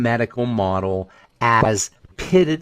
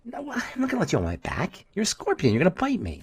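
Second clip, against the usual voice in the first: frog; 7 semitones higher, 5 dB quieter than usual. Retold or imitated. Frog voiced in fable.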